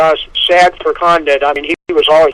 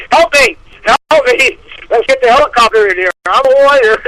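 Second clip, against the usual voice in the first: high, hammed-up cry for help; comic distress call, pitched way up; mock panic; 8 semitones higher, faster than usual. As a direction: plead like a helpless fighter, as a joke. Acts out a helpless fighter, mocking.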